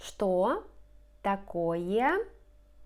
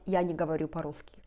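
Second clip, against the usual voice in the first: quick throwaway; 3 semitones lower, much faster than usual. Shown as a demonstration. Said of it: "Instead of just".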